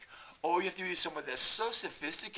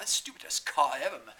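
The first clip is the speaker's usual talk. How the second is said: ordinary talk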